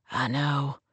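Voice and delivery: low, hushed admission; male lead's admission. Acted. Man answers her murmur.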